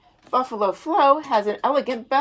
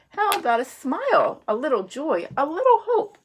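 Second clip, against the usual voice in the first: chirpy squid; 4 semitones higher than usual. Acted. Squid teasing the fish.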